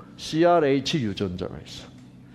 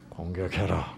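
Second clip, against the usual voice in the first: low, quiet command; God's command; 10 semitones lower, 8 dB quieter than usual. Acted. God prompting the squirrel to attack, low quiet command. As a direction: plant the order softly and low. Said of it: "생각은 누가 준 거예요?".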